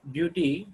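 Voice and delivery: "beauty" stressed on "beau"; stress on first syllable. Shown as a demonstration. Teacher giving a two-syllable noun example, "beauty" stressed on the first syllable. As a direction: put the weight at the start of "beauty". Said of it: "pronounced at the beginning".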